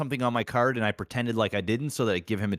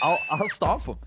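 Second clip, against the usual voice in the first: boastful shout; 9 semitones higher than usual. Real, not acted. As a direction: shout it proudly. Boasting echo.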